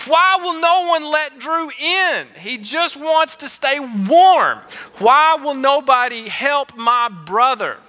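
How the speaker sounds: put-on high, slow, pleading little boy's cry; high, drawn-out child's lament; childish wail. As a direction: wail it like a heartbroken eight-year-old. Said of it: "I'm going".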